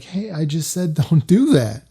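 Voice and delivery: slow, steady and unraised; calm, even reminder. Retold or imitated. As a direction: say it evenly, no yelling. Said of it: "that's literally how I said it".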